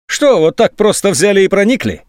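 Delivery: high forced cheerfulness; unnaturally cheerful. A narrator's reading. General questions the colonel, falsely cheerful. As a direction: fake brightness hiding anger. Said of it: "неестественно весёлым голосом".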